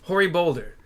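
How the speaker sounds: put-on game NPC read in a mild Texan accent. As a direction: voice him as a Texan. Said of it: "I made him Texan".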